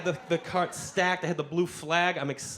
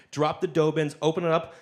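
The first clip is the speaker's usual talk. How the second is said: normal talking voice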